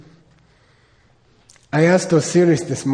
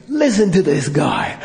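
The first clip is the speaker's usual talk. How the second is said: excited Lama; 3 semitones higher, 3 dB louder than usual. Retold or imitated. Lama thrilled watching the Pope on TV, excited call. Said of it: "Rinpoche's like".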